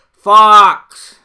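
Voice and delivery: high, loud shout of the word; big cheer shout. Shown as a demonstration. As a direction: yell it out like a camp cheer. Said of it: "you say real loud".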